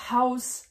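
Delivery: Haus with a clear breathed h at the start; aspirated h demo; German h. Shown as a demonstration. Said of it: "comme par exemple".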